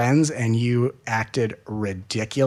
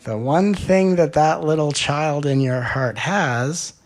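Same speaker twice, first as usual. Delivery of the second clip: usual speaking voice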